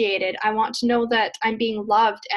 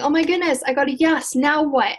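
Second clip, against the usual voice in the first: mildly panicked, slightly raised pitch; mock freak-out; 3 semitones higher than usual. Coach imitating a new seller landing a first client, mildly freaking out. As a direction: lightly act out a flustered reaction. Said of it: "freaking out and going".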